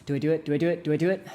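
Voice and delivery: mock-panicked indecision, repeated fast; hesitant dithering. Driver deciding at a yellow light, mock dithering. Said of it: "you're like".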